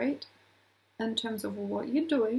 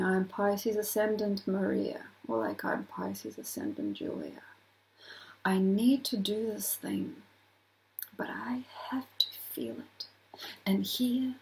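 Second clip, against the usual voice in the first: hushed, breathy self-talk; whispered inner monologue; 3 semitones lower than usual. Retold or imitated. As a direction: murmur it to yourself. Inner thoughts voiced.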